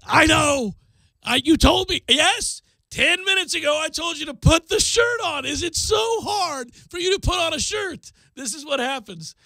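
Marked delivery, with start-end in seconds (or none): 0.1-2.0 louder, higher bratty retort; angry kid. Retold or imitated. Son snapping at dad, angry. 2.1-8.1 exasperated dad. Retold or imitated. Dad scolding son about the shirt, exasperated.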